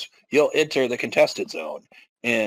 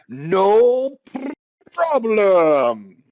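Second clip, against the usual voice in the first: loud, higher cocky boast; cocky hero; 7 semitones higher, 5 dB louder, much slower than usual. Acted. Purple-haired man dashing past soldiers, loud and cocky. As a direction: toss it off with swagger.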